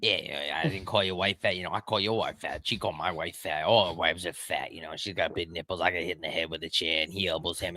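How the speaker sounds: put-on thick Boston guy accent, heated bar-argument rant. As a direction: play a worked-up Boston townie in his Boston accent. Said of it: "we're just doing Boston, Boston accents".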